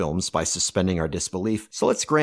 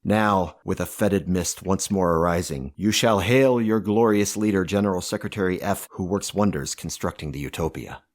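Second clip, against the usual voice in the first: dramatic poem recital. Acted. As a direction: recite like a tyrant's bombastic poem. Dictator recites grandiose poem.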